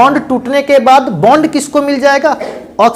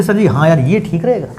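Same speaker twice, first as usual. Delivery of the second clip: a lightly voiced student, softer and lower; mock student reply; 5 semitones lower, 3 dB quieter than usual. Teacher voicing a student who likes his shortcut, lightly mocking. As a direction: play the pleased student agreeing casually. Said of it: "कहोगे".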